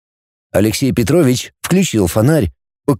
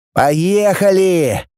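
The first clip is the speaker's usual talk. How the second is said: drawn-out, higher, contented cheer; pleased; 6 semitones higher, much slower than usual. A narrator's reading. Kutnov greets the departing train, pleased. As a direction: stretch the word slowly with satisfaction. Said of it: "довольно сказал Кутнов".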